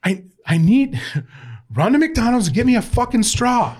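high-pitched mock yell, cracking up midway; imitated livid coach, voice jumping up. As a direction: holler an order like an exasperated coach. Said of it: "Mason's yelling at him".

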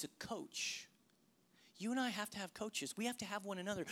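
soft earnest appeal. Acted.

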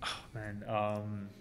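real, quietly moved, low-key; hushed, soft reaction to a touching question; emotional. Real, not acted. Guest moved by question to his younger self, quietly emotional. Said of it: "It's emotional".

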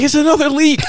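high, laughing imitation of a panicky sister; mocking the sister. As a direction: squeak it out like the flustered sister while laughing. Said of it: "She's like".

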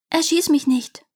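pleading bird. A narrator's reading. Bird begs the prince for its life, pleading.

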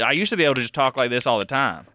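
quick country Southern talk; turned-up Southern accent. Shown as a demonstration. Host demonstrates how they used to talk, in a turned-up Southern accent. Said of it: "I'm really turning up right now".

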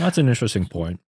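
talking while chewing; words around a mouthful; mouth full. Real, not acted. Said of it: "Oh, I'm chewing".

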